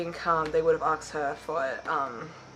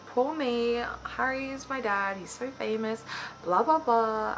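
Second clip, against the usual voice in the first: mock poor-me complaint, a little higher; Albus, self-pitying; 5 semitones higher than usual. Vlogger mocking the annoying son of a famous dad, self-pitying. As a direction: lightly mimic a sorry-for-himself son. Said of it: "Albus is kind of a little turd".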